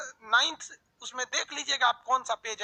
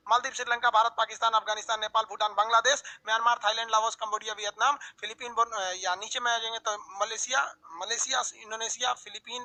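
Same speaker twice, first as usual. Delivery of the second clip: quick drill, one name after another; fast recitation; 3 dB quieter than usual. Shown as a demonstration. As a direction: rattle off the country names at full speed. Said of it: "full speed में". (नक्शे के देश तेज़ी से एक साँस में बोलना)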